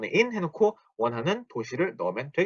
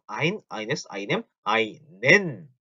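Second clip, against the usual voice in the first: quick recitation; 3 semitones lower, much slower than usual. Shown as a demonstration. Teacher recites endings for learners, quick list. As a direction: run through the article endings, landing hard on "einen". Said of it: "너무 빠른가요?".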